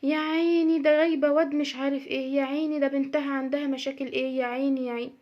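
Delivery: exaggerated fake pity; mock pitying. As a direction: whine "يا عيني" like a gossip. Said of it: "الشحتفة شغالة". (شحتفة مصطنعة بتقليد ساخر)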